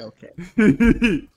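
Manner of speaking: loud, high realization; surprised okay. Real, not acted. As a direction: blurt it out in surprise. Realizing the character is tiny.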